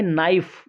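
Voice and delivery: "नाइफ" said naif with no k sound; teacher models "नाइफ" without the k; silent k. Shown as a demonstration. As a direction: skip the k in "नाइफ". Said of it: "इसमें के silent है".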